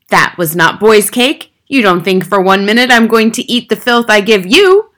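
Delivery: sustained loud, outraged accusation; Trunchbull's shouted tirade. A narrator's reading. Headmistress accuses boy of stealing her cake, shouting. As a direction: rage on at full volume, indignantly. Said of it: "the Trunchbull shouted".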